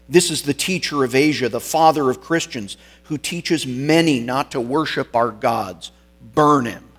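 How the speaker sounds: mild mock yell, loudest on the ending; retold yell. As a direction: rattle off the accusation, then punch the sentence. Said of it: "Someone in the crowd yelled".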